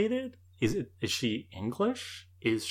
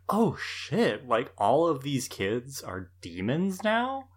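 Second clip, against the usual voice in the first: mock shock; 3 semitones higher, slower than usual. Podcaster voicing a first-time viewer's reaction, mock shocked. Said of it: "this is a shocking moment".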